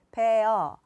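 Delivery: 베어 as two separate, even syllables; split syllables. Shown as a demonstration. Mom teaching English words by rote, 베어 split in two syllables. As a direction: say 베어 loudly, cut into 베 and 어. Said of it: "사실 이거는 다 틀린 발음이에요".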